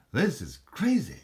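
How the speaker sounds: quoting Walken badly for a laugh in a vlog, half-hearted; Christopher Walken impression. Bottle collector quotes Christopher Walken, mock impression. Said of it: "that's not a good impression of him".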